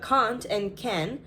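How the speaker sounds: "can't" as broad cahnt, clearly unlike "can"; long ah in "can't", short a in "can"; British can't. Shown as a demonstration. Vlogger showing the words sound different, "can't" said as British cahnt.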